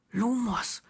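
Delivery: very soft whispered spell; whispering a light spell. A narrator's reading. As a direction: breathe the spell. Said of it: "flüsterte er".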